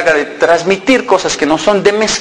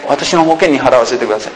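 polite mock argument; 4 semitones lower than usual. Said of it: "comenzaron a pelear".

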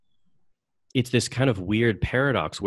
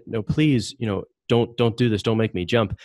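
louder, slightly raised mild plea; retold pleading; 3 semitones higher, 4 dB louder than usual. Host retells android begging not to jump, mild pleading. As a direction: lightly act out someone begging.

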